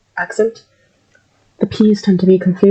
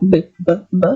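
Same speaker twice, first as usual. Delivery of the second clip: heavy voiced b sounds repeated; demonstrating b sound. Shown as a demonstration. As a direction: show a heavy b, b, b. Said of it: "The word, the sound of B".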